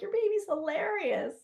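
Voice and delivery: high affirming reply. Retold or imitated. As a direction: tell her back, brightly. Doula answering mom.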